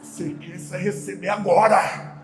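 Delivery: a hushed, assured promise; Rafael's manner. Retold or imitated. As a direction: drop it down, quiet and certain. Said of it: "Aí o Rafael falou".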